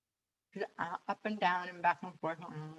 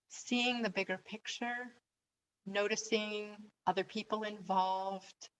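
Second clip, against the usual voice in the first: guided meditation; 4 dB quieter than usual. Acted. Coach inviting listeners to reconsider their situation, guided meditation. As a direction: lead them gently through it, leaving space after phrases.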